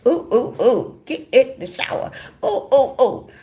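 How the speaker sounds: playful cooing through laughter; teasing ooh. Retold or imitated. Wife cooing playfully at her husband, laughing. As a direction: coo at him with a giggle.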